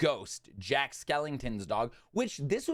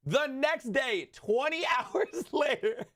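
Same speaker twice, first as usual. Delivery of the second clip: slow, high, stretched next day; drawn-out emphasis; 10 semitones higher, slower than usual. Real, not acted. Vlogger repeating the timing, slow high emphasis. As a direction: drag out next day in disbelief.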